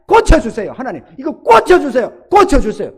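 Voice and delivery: a sick pastor pleading with God for hours; earnest pleading. Retold or imitated. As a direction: beg with all your heart. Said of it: "다른 기도 하나 안 하고 두세 시간을".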